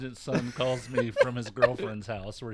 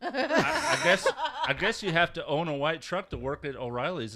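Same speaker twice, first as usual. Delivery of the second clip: mock naive son; 6 semitones higher, 7 dB louder than usual. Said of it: "he goes".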